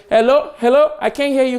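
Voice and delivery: high, loud hello into a bad line; mock caller straining to hear; caller on phone. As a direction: call out as if the line is dead.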